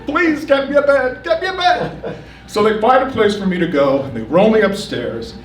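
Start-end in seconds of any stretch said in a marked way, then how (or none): 0.0-2.2 high, wailing half-laugh, half-sob plea; pleading through mock tears, pitched way up; retold crying. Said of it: "And I'm crying".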